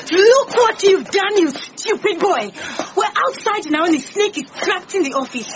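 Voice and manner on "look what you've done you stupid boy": scolding. Acted. Scolding Charlie outside.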